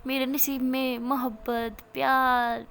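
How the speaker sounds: slow, bitter half-laugh; bitter laughter. Retold or imitated. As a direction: laugh at her own bad luck. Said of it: "میرا ہنستی اور کہتی".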